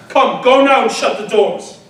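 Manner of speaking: stern but controlled dismissal; firm command. Acted. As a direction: send them off with authority. Orders women out.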